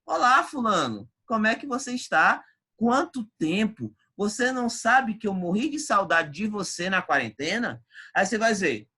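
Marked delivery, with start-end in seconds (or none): 0.0-7.8 uma voz de menina alegre, um pouco mais alta; menina toda feliz. Acted. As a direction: faz a menina radiante de leve. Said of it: "toda feliz, alegre e radiante e fala". (menina radiante, levemente encenada)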